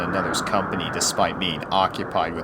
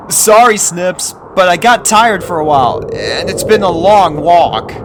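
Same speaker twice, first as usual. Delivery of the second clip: a weary colt catching his breath; tired young colt Snail; 11 semitones higher, 12 dB louder than usual. Acted. Snail tired after walking.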